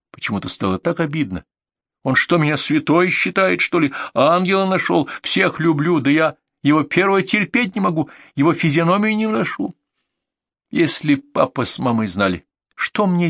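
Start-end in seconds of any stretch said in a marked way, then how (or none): 2.0-9.7 возмущение. Acted. Acted indignant rant about him.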